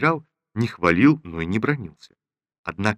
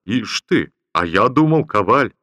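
joking; 4 semitones higher, 4 dB louder than usual. Acted. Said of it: "пошутил генерал".

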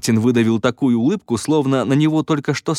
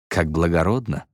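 deadpan, let the sarcasm sit; dry remark; 4 semitones lower than usual. Acted. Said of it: "сухо заметил Дэнни". (сухо и тихо, с сарказмом)

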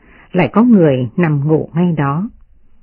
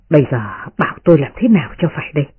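fast, tearful lament with a sob; choked up; 2 semitones lower, much faster than usual. Acted. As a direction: near tears, voice breaking. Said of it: "Nói xong nước mắt tràn ra".

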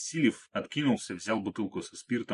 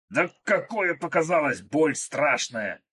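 much higher, louder, dragged-out cry of pain; 6 semitones higher, 4 dB louder, slower than usual. Acted. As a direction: howl that the pain is terrible. Krot in pain after bite.

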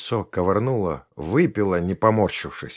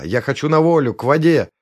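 raised, higher voice, an acted cry; 5 semitones higher, 5 dB louder than usual. A narrator's reading. Girl demands freedom from her captivity, crying out. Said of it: "закричала она".

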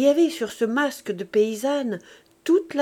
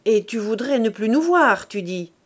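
louder, hurt disbelief; mother stung by her son's words; wounded outcry; 5 dB louder than usual. Acted. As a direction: fling the hurt back at him. Hurt mother questions son.

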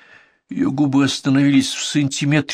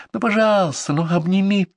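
put-on high, wheedling girl's plea; coaxing plea; 8 semitones higher than usual. A narrator's reading. Girl wheedling the boy for a hug. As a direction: beg sweetly. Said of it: "ласково так вкрадчиво просила".

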